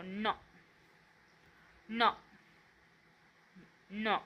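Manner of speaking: न sounded through the nose, said alone; न as an isolated nasal syllable; nasal consonant. Shown as a demonstration. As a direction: hum briefly into न, one at a time. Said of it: "याचा पण उच्चार न असा होतो".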